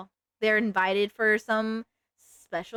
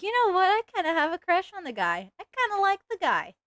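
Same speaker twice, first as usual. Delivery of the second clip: mock confession; 8 semitones higher, faster than usual. Voicing her own inner thought.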